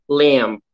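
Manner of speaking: "Lamb" ending on the M, B left unspoken; silent B. Shown as a demonstration. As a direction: shape up for a B in "Lamb" but don't sound it. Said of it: "Você finge que vai falar o B, mas você não pronuncia ele". ("Lamb" com o B mudo, terminando no M)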